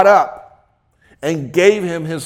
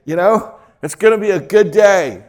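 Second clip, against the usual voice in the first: bright, louder morning cheer; cheery wake-up voice; 5 dB louder than usual. Retold or imitated. Preacher mimicking a cheerful riser. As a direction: play the chipper morning person. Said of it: "They come in and".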